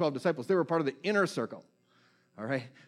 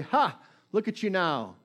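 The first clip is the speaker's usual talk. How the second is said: mild mock jeer, a high bark of a laugh then a sneer; retold jeer; 4 semitones higher than usual. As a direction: sneer it up at the man on the cross, lightly. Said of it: "they yelled at him".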